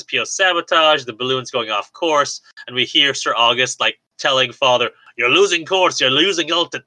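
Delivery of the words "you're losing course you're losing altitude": failed Sean Connery. Retold or imitated. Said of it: "No, that's more Irish".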